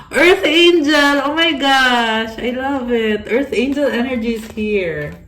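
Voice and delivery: real excitement, big and high at first; thrilled exclamation. Real, not acted. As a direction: burst out in delight, stretching the words. Thrilled at the earth angel card.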